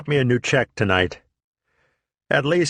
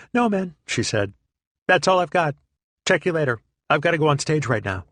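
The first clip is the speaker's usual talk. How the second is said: higher, quick carefree goodbye; breezy brush-off; 6 semitones higher than usual. Retold or imitated. Comedian leaving for the stage, high breezy hurried voice. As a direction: wave him off and hurry away.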